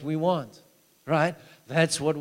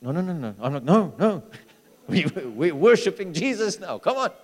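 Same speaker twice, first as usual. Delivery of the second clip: excited urging; 3 semitones higher, 5 dB louder than usual. Retold or imitated. Urging the hand to straighten.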